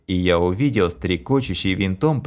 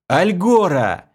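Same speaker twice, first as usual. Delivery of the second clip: shouted command word; 9 semitones higher, 4 dB louder, slower than usual. A narrator's reading. Hero shouts again.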